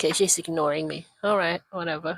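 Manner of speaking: normal talking voice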